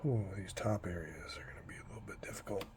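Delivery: whispered while holding breath; breathless whisper, breath held. Real, not acted. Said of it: "can't talk while I'm holding my breath".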